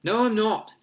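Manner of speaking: loud, high indignant denial; angry protest, pitch leaping up. A narrator's reading. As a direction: snap back hotly. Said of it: "Harry said angrily".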